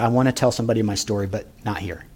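put-on a shy old man talking to the ground; imitating Mike. Lonely old man asking the pastor quietly, subdued imitation. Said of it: "and this is how he talked".

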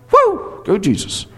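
a sudden high whoop of joy; excited cheer. Real, not acted. Preacher cheering that Duke got beat. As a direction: cheer for the win, forgetting the room. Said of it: "Was that out loud?".

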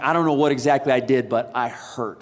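low, hushed voice of someone hurt; pained, weak. Retold or imitated. Injured man on garage floor, weak low pained voice. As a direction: sound winded and in pain. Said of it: "I'm like".

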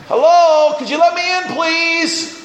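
high, sweet polite request; polite knocking. Acted. Peter at the door asking to be let in, high and polite. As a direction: ask nicely to be let in, high.

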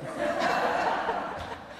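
airy, high wheeze of a laugh; breathless laugh. Retold or imitated. Patient amused at answered prayer.

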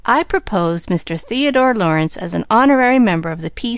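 lightly formal parliamentary speech; measured speechmaking with stressed key words. A narrator's reading. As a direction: propose it like a motion in parliament. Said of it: "assuming a parliamentary attitude and tone".

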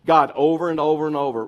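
booming over and over; loud preaching. Real, not acted. Preacher pressing the congregation, booming. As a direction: hammer the repetition loudly.

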